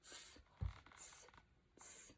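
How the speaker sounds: soft whispered monkey tss; monkey hiss. Acted. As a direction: hiss back like a cheeky monkey. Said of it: "the monkeys only shook their fingers back at him and said".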